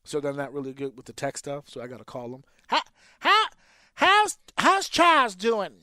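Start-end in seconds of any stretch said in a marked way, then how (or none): 2.7-5.7 put-on high, slow old caller voice; mock elderly grandma, pitched up; grandparent voice. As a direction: play the worried grandma on the phone.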